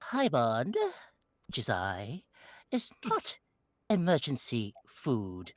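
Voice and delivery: slow, low transatlantic Paimon; transatlantic accent. Pretend. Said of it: "putting a transatlantic accent on Paimon".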